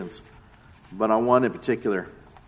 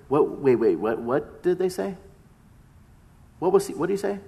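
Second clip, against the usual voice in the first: higher and breathless, tripping over the words; stunned disbelief; 6 semitones higher than usual. Retold or imitated. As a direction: Peter can't believe he was named. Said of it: "Can you imagine Peter being there?".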